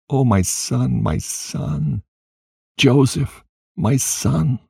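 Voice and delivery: high, plaintive calling of the name; mournful lament. A narrator's reading. Father grieving sadly for his son Joseph, high mournful cry.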